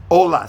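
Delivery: "Hola" said "Ola" with no H; silent H model. Shown as a demonstration. Teacher models hello for the student, H silent. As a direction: say "Hola" without the H. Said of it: "You don't pronounce the H".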